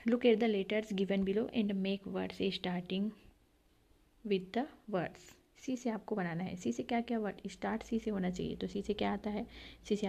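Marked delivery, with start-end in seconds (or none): 0.1-5.4 slow reading. Shown as a demonstration. Teacher reads an instruction aloud.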